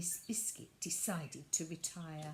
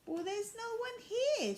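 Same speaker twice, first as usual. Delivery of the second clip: high, puzzled little voice; puzzled doll voice; 14 semitones higher, 4 dB louder than usual. Acted. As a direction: sound baffled to find nobody there. Violet puzzled on empty platform.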